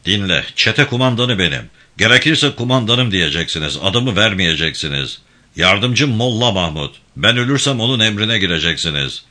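a firm, lightly voiced gang chief giving orders; steady commanding tone, barely apart from the narration; commanding leader. İbrahim Bey assigns command.

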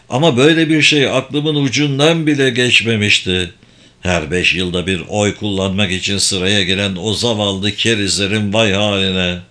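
lightly voiced wry con man; alaycı dolandırıcı. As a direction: answer the mage with dry scepticism. Locke mocks the voters. (alaycı, kuşkucu dolandırıcı sesi)

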